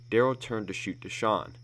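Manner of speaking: ordinary delivery, nothing marked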